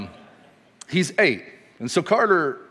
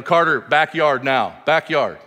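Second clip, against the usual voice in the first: mild mock yell, firm falling orders; imitating a parent's yelled command; retold parental yell; 3 semitones higher, 5 dB louder than usual. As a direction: call the kid to order, half-hearted yell. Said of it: "he'll hear me yell".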